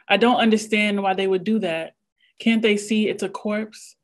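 measured literary reading voice; prose reading. Acted. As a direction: read it like a memoir excerpt. Reads a prose passage aloud.

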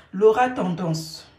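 loud, slow announcement of a name; punchy, deliberate proclamation; emphatic name call. Real, not acted. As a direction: call the name out loudly, drawn out. Announces the name she is targeting.

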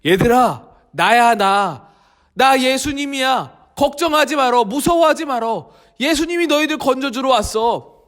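put-on calm the frightened children; reassuring Jesus.

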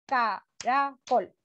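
"Caracol" said slowly, CA-RA-COL; syllables split. Shown as a demonstration. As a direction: count "Caracol" out in slow beats. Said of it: "la palabra caracol". ("Caracol" lento, sílaba por sílaba)

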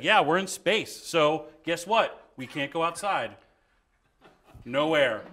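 sure and matter-of-fact, no hesitation; committed improviser owning the scene; confident commitment. Shown as a demonstration. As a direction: state it like it's simply true. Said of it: "as opposed to just acting as if".

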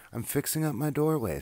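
high, loud, cheery rat voice; cheery Ratty. Acted. Ratty telling Mouse about his doorway, high and cheery. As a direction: bounce it out like a busy pack rat.

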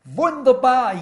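loud, high cry of delight; joyful shout. Retold or imitated. Elder shouting up at the pastor in the pulpit, glad loud cry. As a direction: call out Wunderbar like a man overjoyed in church. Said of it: "und schreit".

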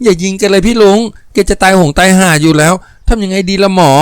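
pleading woman. Acted. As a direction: beg him not to shoot, in a light woman's voice. Woman pleading uncle not to shoot.

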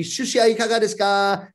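tissue hander's call. Acted. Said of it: "if you're advertising the sushi shop".

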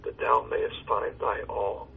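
measured verse reading with pauses between lines; poem recitation. Acted. Pastor reciting a hymn poem to his caller, measured recitation. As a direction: recite devoutly, lifting line openings and letting endings fall.

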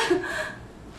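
brief breathy laugh; short laugh. Acted. Suspect amused by her own wrap call, brief laugh. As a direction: laugh it off after the shout.

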